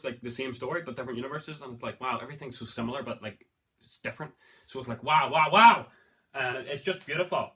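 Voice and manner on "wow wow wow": excited wow. Real, not acted. Marvelling at parallel origin stories.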